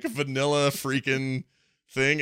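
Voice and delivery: ordinary talk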